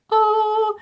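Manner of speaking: a high, bright "Oh" of dawning insight; sudden realisation. Retold or imitated. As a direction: let it click all at once.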